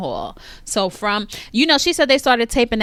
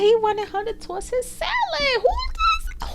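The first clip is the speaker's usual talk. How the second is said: scandalized. Real, not acted. Scandalized retelling.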